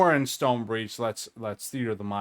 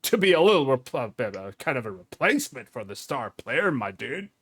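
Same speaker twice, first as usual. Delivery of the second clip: jock; 3 semitones higher, 5 dB louder than usual. Acted. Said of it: "let me put my jock voice on here".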